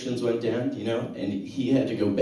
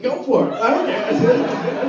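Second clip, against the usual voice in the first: mock carefree; 12 semitones higher, 4 dB louder, slower than usual. Acted carefree reply to dad.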